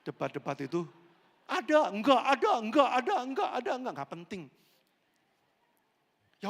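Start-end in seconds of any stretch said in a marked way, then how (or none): 1.5-3.9 loud, high back-and-forth like a TV debate; mock debate shouting. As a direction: yell it like candidates arguing on TV. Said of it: "kayak yang paslon itu, yang di T V". (berteriak seperti debat paslon di TV)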